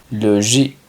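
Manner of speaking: French "logique", ending on a k sound; French pronunciation. Shown as a demonstration. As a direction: model "logique" in French, stressed on the final -ique. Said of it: "Lógico se pronunciaría logique".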